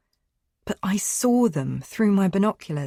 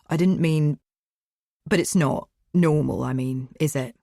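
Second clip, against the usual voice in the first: comforting. Acted. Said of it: "exuding comfort and mercy".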